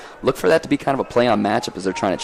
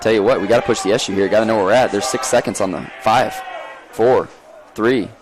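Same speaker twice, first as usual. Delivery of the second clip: urgent countdown. Real, not acted. Commentator urging the team as the shot clock expires, urgent.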